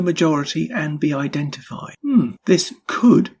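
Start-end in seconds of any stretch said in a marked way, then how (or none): 2.0-3.3 slow, leaning on "could"; a slow, weighty "could" that plants doubt; stress on could. Shown as a demonstration. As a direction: drag out "this could" and hit "could". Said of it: "and I emphasize the word could".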